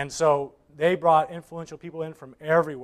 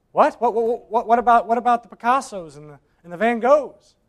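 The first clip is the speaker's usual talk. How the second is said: much higher, louder outburst; shocked disbelief; 6 semitones higher, 8 dB louder than usual. Acted. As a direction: sputter in disbelief. Bidders shocked auction is over.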